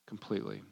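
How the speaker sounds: "completely" set apart after a long pause; pause, then land "completely" low and soft; stress on COMPLETELY. Real, not acted. Preacher urging full obedience, stress on "completely". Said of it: "should have put completely in all caps".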